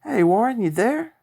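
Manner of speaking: high, loud eager call; gladly. A narrator's reading. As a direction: call out to him full of relief.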